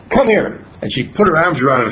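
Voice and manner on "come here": calling gently. Retold or imitated. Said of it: "And she wasn't angry".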